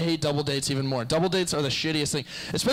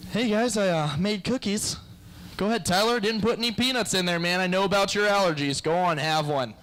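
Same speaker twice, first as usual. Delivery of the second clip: mock friendly offer; 4 semitones higher than usual. Comic acts friends offering cookies.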